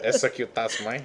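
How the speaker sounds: playful Irish lilt, only lightly done; mock Irish accent. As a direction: repeat the button name in a jokey Irish accent. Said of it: "that was my Irish voice".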